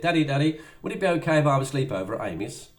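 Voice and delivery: put-on eager, fast child's plea; child asking. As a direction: play the kid begging Daddy. Child asking dad, voiced.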